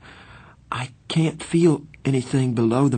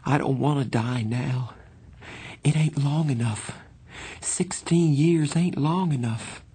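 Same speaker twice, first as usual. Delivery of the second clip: put-on high, plaintive boy's voice; quivering; 7 semitones higher than usual. A narrator's reading. Johnny telling Pony he doesn't want to die, plaintive. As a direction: plead against dying, pitched well up. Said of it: "He drew a quivering breath".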